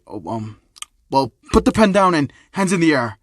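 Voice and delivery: fumble, then give the order; confused. Acted. First thug thrown by the kid's sarcasm, confused. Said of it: "would be confused and would say".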